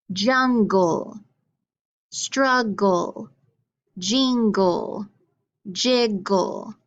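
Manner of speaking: jungle, struggle, jingle, jiggle, each with a drawn-out "gul" ending; syllable-by-syllable demo. Shown as a demonstration. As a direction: pronounce jungle, struggle, jingle, jiggle in two deliberate beats. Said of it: "Listen to this".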